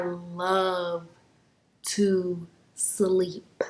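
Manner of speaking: breathy whispered "to sleep"; softly whispered love of sleep. Real, not acted. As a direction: sigh it out dreamily. Dreamy about loving sleep.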